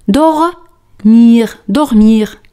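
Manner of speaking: "dormir" said clearly for the class to echo; "dormir" drilled for repetition; teacher leads the class in repeating "dormir"; repeat after me. Shown as a demonstration. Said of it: "Repite conmigo".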